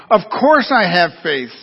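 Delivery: slow, emphatic cry of insistence; mild desperation. Acted. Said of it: "cried in desperation".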